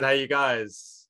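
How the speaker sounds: slow, drawn-out hey you guys; drawn-out show greeting; signature greeting. Shown as a demonstration. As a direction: stretch it like a catchphrase. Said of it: "and I said".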